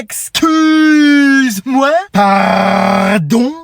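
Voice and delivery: drawn-out, high, incredulous excuse me; shocked. Acted. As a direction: stretch it out in disbelief. Shocked at wrong answer.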